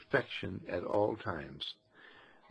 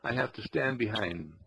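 eager, breathless bragging, lightly done; mock pride; 3 dB louder, faster than usual. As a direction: voice of pride, rushing to tell everybody. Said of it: "that old pride that says".

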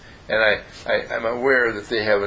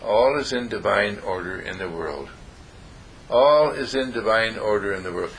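soft self-affirmation; 3 semitones lower than usual. Shown as a demonstration. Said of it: "you say to yourself".

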